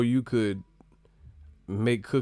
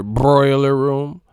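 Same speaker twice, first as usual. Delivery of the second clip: deadpan answer; 3 semitones higher, 10 dB louder, much slower than usual. Retold or imitated. Mock reply about temperature.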